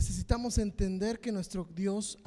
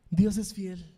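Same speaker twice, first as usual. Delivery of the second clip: louder, falling declaration; loud proclamation; 6 dB louder, slower than usual. Real, not acted. Preacher building to the congregation, a louder declaration.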